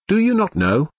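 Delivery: high, surprised question rising at the end; exclaiming. A narrator's reading. Countess to Ruth, surprised she does not know, exclaiming. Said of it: "exclaimed the old lady".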